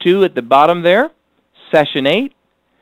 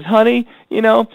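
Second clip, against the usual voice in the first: higher, slow, mildly hurt wife voice; husband hears his wife say she feels unloved, higher and slow; 8 semitones higher, slower than usual. Retold or imitated. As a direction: play a wife gently voicing her hurt to her husband. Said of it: "she just comes up and says".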